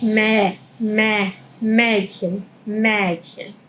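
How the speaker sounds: "Mädchen" with ä and soft ch; German ä. Shown as a demonstration. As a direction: repeat "Mädchen" quietly. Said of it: "estoy haciendo la boca de A".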